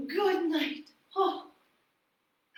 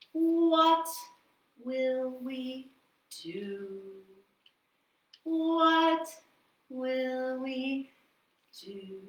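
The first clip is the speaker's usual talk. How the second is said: worried husband; much slower than usual. Acted. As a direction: let each question sink away. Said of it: "And the man said".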